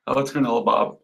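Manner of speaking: mildly let-down greeting; upset. Real, not acted. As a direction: sound a touch disappointed to see who it is. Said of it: "You, you sounded so, so, so, so, uh, upset".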